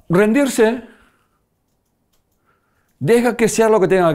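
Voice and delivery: father urging his daughter to let go, emphatic; emphatic advice. Retold or imitated.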